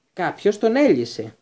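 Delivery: biting out the words in frustration; growled. A narrator's reading. Executioner realizing the beast was freed, slow angry growl. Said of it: "γρύλισε ο Δήμιος".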